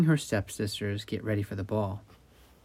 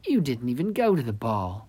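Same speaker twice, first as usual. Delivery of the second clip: mocking stepsister. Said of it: "laughed the elder stepsister".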